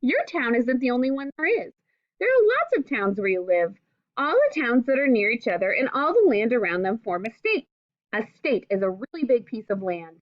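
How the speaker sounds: clear, gentle read-aloud to a class; reading to children. Acted. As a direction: read the book aloud to young pupils, patiently. Teacher reads picture book to class.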